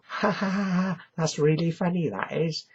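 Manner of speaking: high-pitched put-on ha-ha laughter; mock laughing. Friends hear his taped album, mock laughing amusement. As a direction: imitate a mate cracking up, pitched high.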